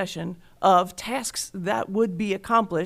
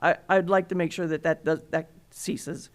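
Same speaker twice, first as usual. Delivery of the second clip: voice cracking; 3 semitones lower than usual. Real, not acted. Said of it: "my voice is cracking".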